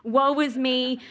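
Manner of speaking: melodramatic, slow self-pity; mock despair. After watching her own takes, mock tragic wailing. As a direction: ham up the woe-is-me. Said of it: "wanna cry".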